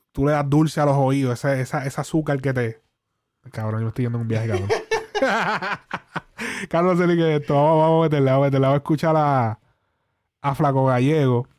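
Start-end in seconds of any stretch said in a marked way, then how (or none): 4.7-6.6 high-pitched laughing fit; high laughter. Real, not acted.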